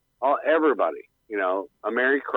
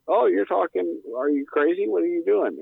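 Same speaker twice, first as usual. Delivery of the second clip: retold friend; 7 semitones higher than usual. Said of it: "And he goes".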